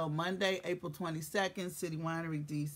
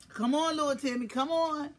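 high, sing-song coaxing call; 7 semitones higher, 3 dB louder than usual. Acted. Host coaxes Timmy to join the stream, high and sing-song. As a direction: coax him like a child. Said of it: "That's how you gotta talk to him".

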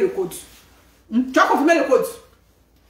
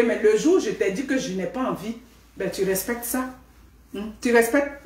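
wife setting limits; 5 semitones lower, 6 dB quieter than usual. Acted. Wife voiced to husband.

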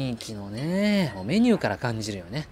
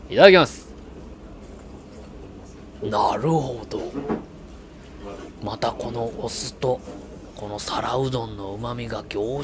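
lightly voiced gourmet inner monologue; Goro narration voice; slower than usual. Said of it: "五郎さんのナレーション".

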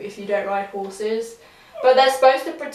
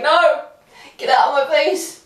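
raised, higher mock protest; mock recoil; 4 semitones higher, 4 dB louder than usual. Vlogger retells flinching from the light, mock protest. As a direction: shoo the light away, playfully indignant.

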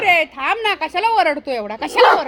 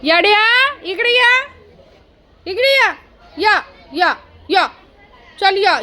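high, carrying call to come; 6 semitones higher than usual. Real, not acted. Owner calling a whining dog over, high-pitched call.

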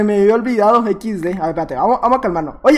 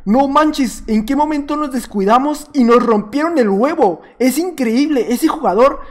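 lightly voiced impressed rival players; mock astonishment, a touch emphatic; imagined amazed fans; 2 semitones higher than usual. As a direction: act out stunned admirers. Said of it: "para que digan".

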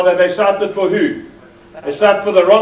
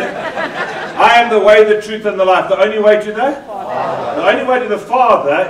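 yelled verse. Shown as a demonstration. Preacher yells the verse for the congregation, laughing. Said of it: "Why don't you yell".

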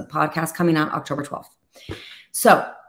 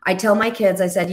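usual speaking voice

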